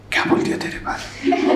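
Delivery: hushed, laughing whisper. Retold or imitated. Classmate Ram whispering to Pradeep after the teacher leaves. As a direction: whisper it behind the teacher's back with a giggle.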